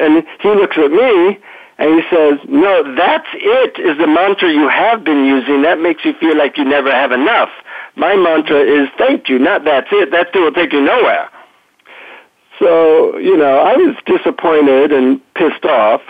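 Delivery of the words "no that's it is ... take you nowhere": put-on guru's corrective reply in Indian accent. Guru correcting the disappointed traveler, Indian accent. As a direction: lightly imitate an Indian guru setting a pupil straight. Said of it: "deep Indian accent".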